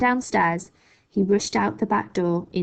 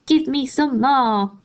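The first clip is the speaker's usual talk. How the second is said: a touch higher, slow demanding crone; greedy old grandma; 5 semitones higher, 4 dB louder, slower than usual. A narrator's reading. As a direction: demand more, relishing it. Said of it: "she cried".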